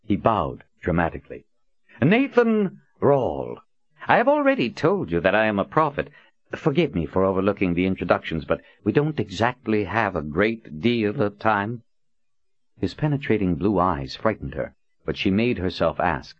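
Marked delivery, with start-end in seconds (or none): 2.0-11.8 grand introduction. Acted. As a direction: announce your name with flourish. Prophet grandly introduces himself.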